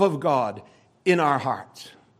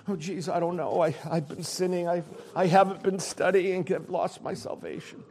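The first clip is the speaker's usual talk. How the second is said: soft, worried mock believer voice; hushed, fretful imitation of a doubting believer; fretting doubter; 8 dB quieter than usual. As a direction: play an anxious churchgoer losing heart. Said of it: "Stop your fretting".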